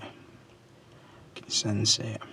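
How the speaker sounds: whispered very slowly, like a seer; slow eerie whisper. Shown as a demonstration. To his viewers, a slow mysterious whisper.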